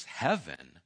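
low, hushed villain's twist, lightly acted; quiet sinister reveal. Pip reveals where Rocky really is, hushed and ominous. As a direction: let it sink toward a whisper at the end.

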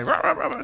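rapid yapping barks; mock yapping in a human voice; imitated dog barking. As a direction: bark like a worked-up little dog. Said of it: "starts barking".

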